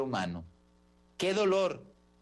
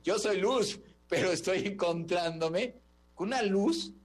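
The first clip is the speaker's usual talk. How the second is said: awed angel; 5 semitones higher than usual. Retold or imitated. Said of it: "habrá dicho".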